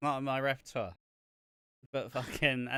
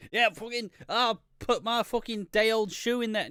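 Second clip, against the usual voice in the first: higher, louder hammed-up Vince; mock shouting boss; 8 semitones higher, 5 dB louder than usual. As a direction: bellow it like a proud bad cook. Vince voiced, cooking.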